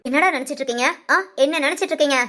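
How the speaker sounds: irate scolding, repeated demand; mother's angry rebuke. Acted. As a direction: tell them off crossly, quickening on the repeat. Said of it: "ஏம்மா இவ்வளவு கோபமா இருக்கீங்க?".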